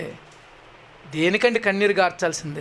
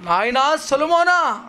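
father calling son; 4 semitones higher, slower than usual. Acted. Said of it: "అంటాడు".

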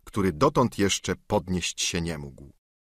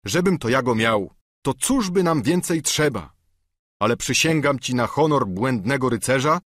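lightly voiced solemn knight, a bit raised; knight's voice; 4 semitones higher than usual. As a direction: swear it on knightly honour. Don Quixote voiced.

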